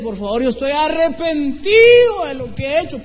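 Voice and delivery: acted remorseful begging, halting and stretched; repentant pleading. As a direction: act out an anguished apology. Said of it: "si él viene y se arrepiente".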